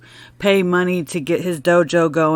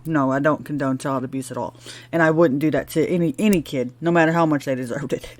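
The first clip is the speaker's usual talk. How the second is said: ordinary delivery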